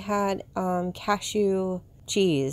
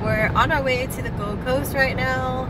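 on a bumpy road; 4 semitones higher than usual. Real, not acted. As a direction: voice bouncing on a rough road. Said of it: "this video is gonna be so jiggly".

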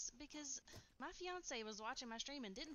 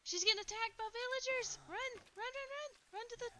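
high, loud urgent yelling; excited shouting; 13 semitones higher, 7 dB louder than usual. Real, not acted. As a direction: yell at her to run for it. Friend attacked by villagers, urging run.

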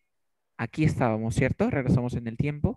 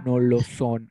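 "no lo son" pushed out firmly, word by word; emphatic denial; 2 semitones lower, 4 dB louder, slower than usual. Shown as a demonstration. Teacher shows how to emphasise a denial, emphatic. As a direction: stress each word of "no lo son". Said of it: "Imagínate que yo quiera enfatizar".

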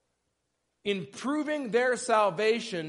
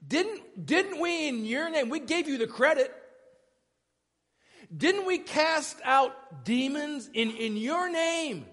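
higher-pitched protest, drawing out the words; incredulous pleading; 4 semitones higher than usual. Acted. Rejected believers appealing to the Lord on that day, incredulous pleading. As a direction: plead your case in disbelief.

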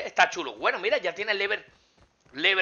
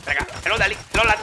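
ordinary talk

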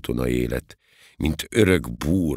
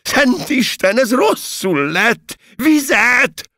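very high, loud cry of alarm; panicked high-pitched yelling; alarmed shout; 7 dB louder, slower than usual. A narrator's reading. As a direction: call urgently for help. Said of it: "és így kiáltott".

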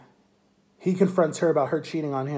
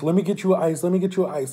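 retold panicky offer, slightly raised pitch; mock freaking out; 4 semitones higher, 3 dB louder than usual. Best friend offering help for the eye, mock freaking out. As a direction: imitate a friend in a mild flap. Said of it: "like, freaking out".

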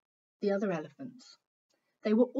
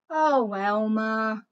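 drawn-out, louder gasp of "Oh, Elmer"; slow, louder gasp in mock wonder; 6 dB louder, much slower than usual. Old elephant gasping at Elmer, slow and louder. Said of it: "gasped the old elephant".

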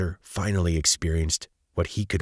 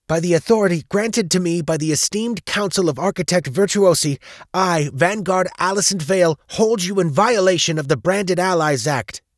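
high, loud, official declaration; formal arrest proclamation; 13 semitones higher, 6 dB louder than usual. A narrator's reading. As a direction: proclaim the charge loudly as an officer of the law.

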